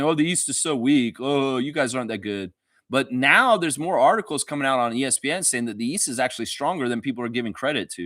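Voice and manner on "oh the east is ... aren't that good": mocking rival fans. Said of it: "making fun of us and saying".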